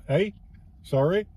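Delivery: lightly put-on Canadian accent; mock Canadian accent. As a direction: joke Canadian "eh" and apology. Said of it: "it's a great Canadian accent".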